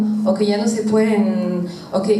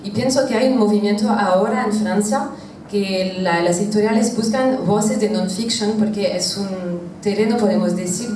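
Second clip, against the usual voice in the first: French accent Spanish. Real, not acted. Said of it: "perdón por mi español porque no es perfecto".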